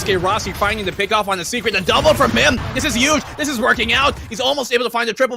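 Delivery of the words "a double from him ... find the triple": excited esports caster. Real, not acted. Caster hypes a multi-kill.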